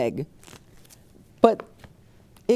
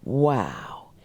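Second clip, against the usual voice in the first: amazed wow; 8 semitones lower, 3 dB quieter than usual. Acted. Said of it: "cheered all the students".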